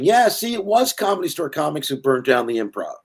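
high, loud retold shout; worked-up mock shouting. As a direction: imitate a guy yelling across the bar. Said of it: "standing up shouting".

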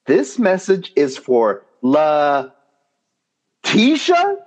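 mock caller reading a name; quoting the caller. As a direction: stumble over the name like a confused caller. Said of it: "and I quote".

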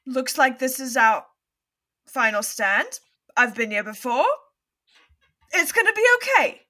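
nervous, rising brave face; unconvincing reassurance. Acted. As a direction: fake calm that cracks at the end. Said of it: "You sound very reassured".

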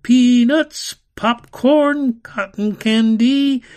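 high, loud barker's calls; carnival barker shout. Acted. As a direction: hawk it to the crowd. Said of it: "Carnival barkers shouted".

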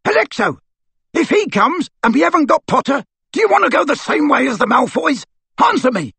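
high, loud, furious bellow. Acted. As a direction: roar it at the locked door. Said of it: "Amycus bellowed".

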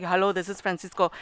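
a hint of Pancho's phone voice; lightly voiced formal greeting; mock professional phone voice. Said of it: "he's all like".

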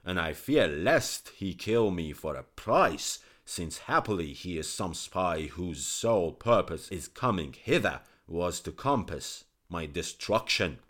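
loud, forceful royal tirade; angry king. Acted. King telling his courtiers why the physician dies, loud and angry. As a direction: insist the traitor must die. King justifies killing, shouting.

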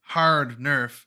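slow, dry sarcastic drawl. Real, not acted. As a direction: say it with heavy sarcasm. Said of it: "I don't know if you can tell the sarcasm in my voice".

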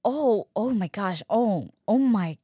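slow, drawn-out mock agony; retold contraction distress. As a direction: act out a contraction building, stretching each "oh". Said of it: "leading up to the really bad contraction".

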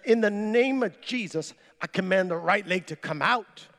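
firm, measured command; stern command. Retold or imitated. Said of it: "I said it sternly".

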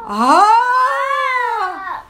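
a sudden astonished ah; ah of pure surprise; surprised ah. Shown as a demonstration. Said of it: "Ah, de sorpresa".

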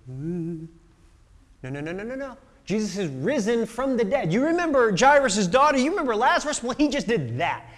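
excited disciples half laughing; laughing insistence. Retold or imitated. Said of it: "disciples insisting, laughing".

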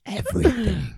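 laughing. Real, not acted. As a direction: chuckle it out teasingly. Joking he takes everything.

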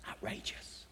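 outrageous breathed as a pure whisper, no voice. Acted. Preacher marvelling at Jesus' promise, whispered. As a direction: drop to a hush on outrageous. Repeated word, second whispered.

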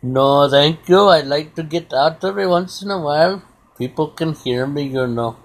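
lightly put-on Indian accent; Rajneesh's Indian accent. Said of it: "I love that accent".

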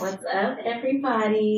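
soft, low and sultry greeting; low sexy voice. Pretend. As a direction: purr the greeting quietly and low. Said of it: "don't put on your low sexy voice".

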